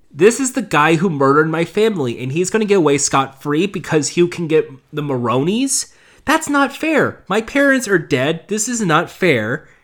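acted indignant protest, voice jumping up; lightly mock outraged young man; mildly pissed. Orphan protesting his family's killer going free, mildly indignant. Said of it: "Dick Grayson gets pissed".

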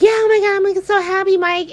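imitating Nina gushing over Mike, hammed-up; mock gushing Nina. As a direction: coo it like a lovestruck fool. Mocking Nina's gushing.

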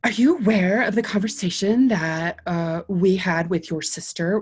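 a hint of a prim, mousy neighbor lady; lightly imitating a prissy complainer; lightly voiced prim neighbor.

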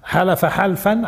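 حلف حلفا spelled out syllable by syllable, slowly; slow teacher's drill of حلف حلفا; slow drilled pronunciation. Shown as a demonstration. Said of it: "إذن".

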